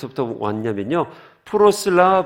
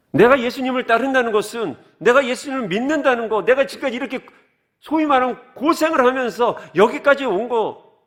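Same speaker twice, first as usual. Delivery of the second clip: much higher, aggrieved complaint; aggrieved Peter; 10 semitones higher, 4 dB louder than usual. Retold or imitated. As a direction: pour out years of sacrifice, pitched high. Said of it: "오늘 같으면 이렇겠죠". (높은 목소리로 서운함을 토로하는 베드로)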